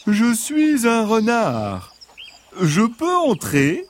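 high, slow, gentle fox voice; soft reassuring voice. Acted. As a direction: coax them sweetly, like a friendly fox. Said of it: "Une voix douce et rassurante".

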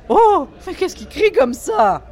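high, loud horrified lady; shocked and appalled; high, horrified question. Acted. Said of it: "s'écria Diane, horrifiée".

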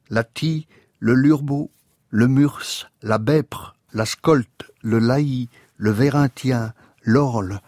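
measured roll-call of invented names, each set apart; deliberate, spaced-out list reading; literary list recitation. Acted. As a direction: recite each name as its own item, with small pauses.

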